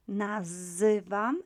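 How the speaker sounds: "Nazywam" slowly, zy as "zuh"; drawn-out ZY sound. Shown as a demonstration. Teacher drilling Z and Y together, slow "Nazywam". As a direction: stretch the zy in "Nazywam". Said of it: "memorize the Z and Y together as z".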